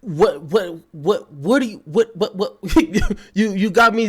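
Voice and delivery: stammering in disbelief; can't get the words out; flustered stuttering. Real, not acted. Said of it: "you got me stuttering here".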